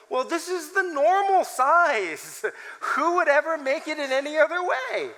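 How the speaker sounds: airily sure of her own normal; naive assumption. Retold or imitated.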